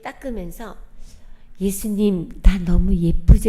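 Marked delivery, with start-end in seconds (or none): 1.6-3.5 slow, louder playful asking; coy question to Jesus. Retold or imitated. Woman in shower asks Jesus if she's pretty, coy. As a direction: ask Jesus to praise you, teasing and slow.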